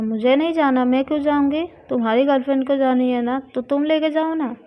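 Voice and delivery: loud teasing refusal. Acted. Refusing friend teasing Priya, loud and playful. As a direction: push back loudly at the friend.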